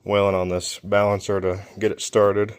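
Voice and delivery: breathless after heavy work; winded, catching breath between words. Real, not acted. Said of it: "Sorry, I'm out of breath".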